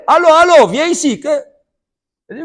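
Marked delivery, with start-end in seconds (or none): 0.1-1.2 loud, high call from a window. Acted. Sleepy man calling the knocker back, loud and high. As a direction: shout after someone walking away.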